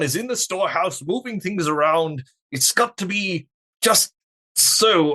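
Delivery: teeth together. Acted. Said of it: "Put your teeth together and talk".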